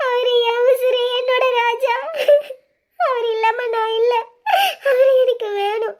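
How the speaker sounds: sobbing through the words, pleading to see him; begging through tears, voice breaking; tearful pleading. Acted. Heartbroken woman begging her sisters to let her see Raja, sobbing.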